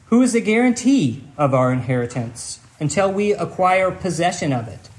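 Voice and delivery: measured, earnest reading from the Bible; scripture reading. Acted. Pastor reading Ephesians to the congregation, earnest scripture reading. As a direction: read the passage with weight and care. Reads Ephesians passage aloud.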